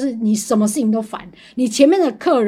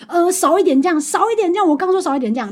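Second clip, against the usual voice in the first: urgent insistence; 5 semitones higher than usual. Retold or imitated. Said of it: "我就说".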